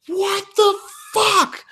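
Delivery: very high, slow, drawn-out mock outburst; exasperated mock shriek; imagined furious yell. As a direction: let the frustration burst out in a hammed-up yell. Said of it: "just to yell".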